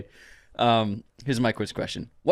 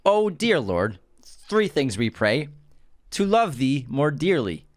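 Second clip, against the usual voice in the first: hammed-up dinner prayer; mock grace. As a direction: overblown preacher saying grace. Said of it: "I know the quote".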